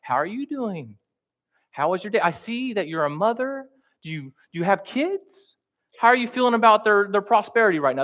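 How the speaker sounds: high, chirpy friendly questions; hammed-up cheerful chatter; mock eager small talk. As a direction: play an overeager evangelist chatting up a mother. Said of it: "And it's like".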